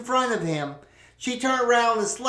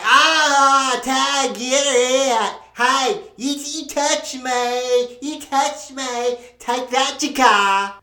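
kids playing; 4 semitones higher, 3 dB louder, slower than usual. Kids flailing and yelling.

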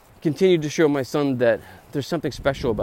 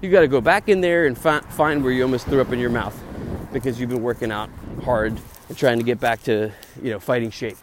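pushy inner ego. Retold or imitated. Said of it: "my ego would be like".

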